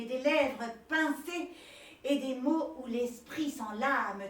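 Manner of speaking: slow, grand poem recital; hammy stage actor. Acted. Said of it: "déclame un poème".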